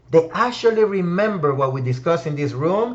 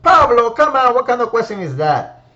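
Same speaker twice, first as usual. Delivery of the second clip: mock incredulous audience; 4 semitones higher, 4 dB louder than usual. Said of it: "You will say".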